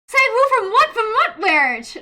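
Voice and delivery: loud, high incredulous questions; hammed-up baffled outburst; mock bewilderment. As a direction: play utterly lost, voice shooting up. Acting out bewildered teenage self.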